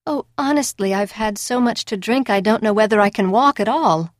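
a touch of tipsy slur. Acted. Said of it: "in my drunken state".

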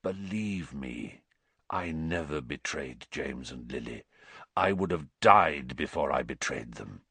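low, hushed croaking earnestness; croaked plea. A narrator's reading. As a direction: beg quietly to be believed. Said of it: "croaked Black".

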